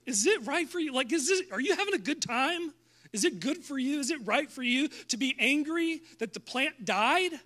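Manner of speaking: playful prodding voice; God's probing question. Acted. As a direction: gently probe like a therapist. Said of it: "then God said to Jonah".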